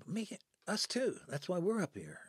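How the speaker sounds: high-pitched, emphatic retold agreement; eager agreement. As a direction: jump in high, agreeing wholeheartedly. Retelling the man's eager agreement.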